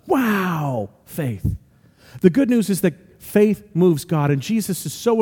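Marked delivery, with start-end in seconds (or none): 0.1-1.5 drawn-out, admiring wow; impressed wow. Acted. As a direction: let the wow open up, then settle. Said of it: "rather than the".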